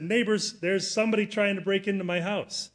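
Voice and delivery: calling out. Retold or imitated. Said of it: "I called out to the neighbors".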